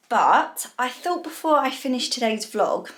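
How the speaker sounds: breathless, puffing between words; out of breath. Real, not acted. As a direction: talk while still catching your breath. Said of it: "I'm really out of breath".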